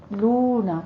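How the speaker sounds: لونا with the "loo" drawn out; لونا recited with a held "oo"; stretched long vowel. Shown as a demonstration. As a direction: lengthen the و of لونا. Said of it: "تھوڑا سا کھینچ کے پڑھیے گا".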